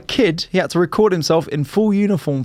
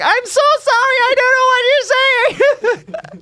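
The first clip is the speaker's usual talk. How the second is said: laughing apology; slower than usual. Retold or imitated. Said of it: "She was just like".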